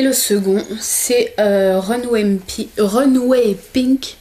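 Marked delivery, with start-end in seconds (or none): 1.8-4.2 slow, drawn-out English accent on the name; super English accent. Real, not acted. French vlogger reading a shade name in her super English accent. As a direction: try an English accent, drawing it out slowly. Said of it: "avec mon super accent, euh, anglais".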